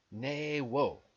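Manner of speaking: "Ne Wo", both vowels drawn out; careful sounding-out. Shown as a demonstration. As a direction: sound out "Ne Wo" syllable by syllable. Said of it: "phonetically sound out all these numbers".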